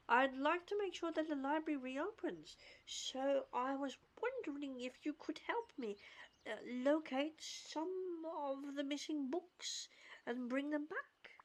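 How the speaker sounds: lightly acted, deliberate read-aloud; reading dialogue aloud. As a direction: read it out carefully, phrase by phrase. Reads game character's dialogue aloud.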